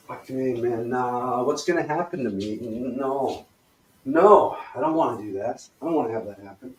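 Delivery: anxious, reluctant moaning; worrying. Shown as a demonstration. Coach demonstrates the worry exercise, dreading what happens. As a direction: fret and protest, with sighs between. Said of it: "So right back into it".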